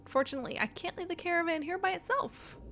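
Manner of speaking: lightly voiced character narration; quest-text reading. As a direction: read the game dialogue as a worried caravan keeper. Reads game quest text in character.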